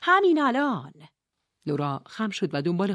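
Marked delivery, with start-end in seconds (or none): 0.0-0.9 higher, loud urgent command; urgent shout. A narrator's reading. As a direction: order her under the table now. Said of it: "خانم علم داد زد".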